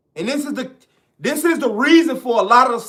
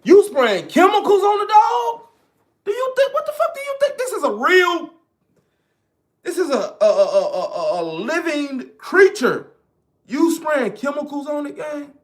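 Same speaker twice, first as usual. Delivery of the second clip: disgusted outrage; 5 semitones higher than usual. Retold or imitated. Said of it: "I said".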